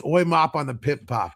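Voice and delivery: half-hearted attempt at a British accent; lightly put-on mock British; bad British accent. Shown as a demonstration. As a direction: badly fake British, close to your own voice. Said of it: "that's my British accent".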